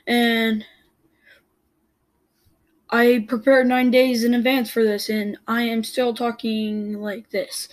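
lightly mocked halting coach, slowing at the end; a hint of a nervous coach reading note cards; imitating the coach. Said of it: "This is how he said it".

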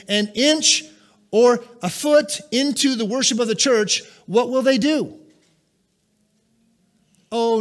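loud, pressing pulpit voice; full-force sermon delivery; fiery preaching. Acted. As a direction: preach it hard at the congregation.

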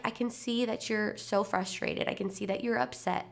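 gently validate the child's feelings, retold; calm acknowledgement. Acted calm acknowledgement to upset son.

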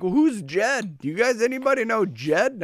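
high-pitched mock UK accent; lightly imitated UK accent, high voice. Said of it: "they have this weird accent".

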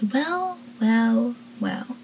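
mock-villain greeting; taunting greeting. Mocking greeting in retold scene.

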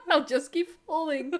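giggling, unbothered maid; lightly voiced servant, laughing.

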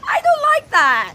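loud and high, fed up; angry outburst. Acted. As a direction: snap it out, furious. Angry sibling quarrel.

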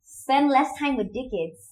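slow attempt at a New Zealand accent; Kiwi accent. Shown as a demonstration. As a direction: copy a Kiwi accent, drawn out. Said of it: "Kiwi accent".

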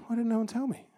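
high, put-on voice of someone embarrassed; hammed-up embarrassed wail; mock dismay. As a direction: whine it like someone nobody warned. Mock dismay at day's end.

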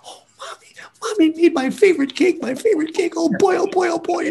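put-on high squealing child voice, bubbling with joy; excited little girl. Grandchild squealing over her birthday cake, high and excited. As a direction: squeal like a thrilled six-year-old.

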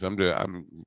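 tripping over the words; stuttering. Real, not acted. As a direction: stammer on the start. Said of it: "I'm just stuttering here".

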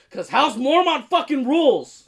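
excited fan shouting for House Mormont; excited cheer. Real, not acted.

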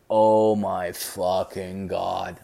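slow, low, drawn-out disbelief; appalled. Retold or imitated. Son appalled by dad's crude answer, slow disbelief.

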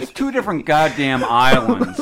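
laughing while ranting; half-laughing exasperation. Real, not acted. Mock rant about Irish and Scots.

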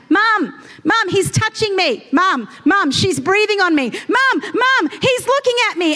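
put-on high whiny kid complaining to mum; whiny tattling little sibling. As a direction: whine like a tattling child in the back seat. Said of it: "it was more like".

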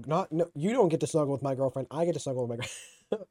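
quick defensive correction. Real, not acted. Streamer correcting themselves to chat about their girlfriend, defensive. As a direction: jump in to set them straight. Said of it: "I got so defensive for a second".

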